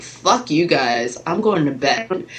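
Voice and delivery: slow, fed-up goodnight; a slow, tired fuck you guys; grumpy exit line. Retold or imitated. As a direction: drag out fuck you guys like you're done. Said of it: "I'm like".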